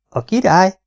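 put-on astonished child's question; wide-eyed surprise. A narrator's reading. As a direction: echo it in amazement, voice leaping up. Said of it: "kerekedett el Bee szeme".

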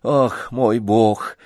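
boiling over. A narrator's reading. Lady flares up at the old man, mildly indignant. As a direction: flare up at his stupidity. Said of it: "вскипела дама".

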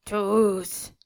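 loud, drawn-out outburst; angry exclamation. A narrator's reading. Sick old man accuses his household, crying out. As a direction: cry it out in anger. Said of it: "s'écria Nikita en levant son poing fermé".

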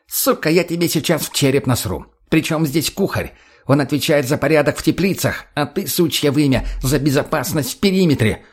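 irritated dressing-down; angry scolding. Acted. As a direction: lay into a useless subordinate. Boss threatens and scolds subordinate.

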